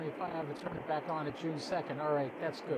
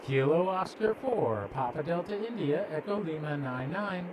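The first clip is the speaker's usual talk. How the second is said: radio call; 4 dB louder than usual. Real, not acted. Calling the ISS on radio.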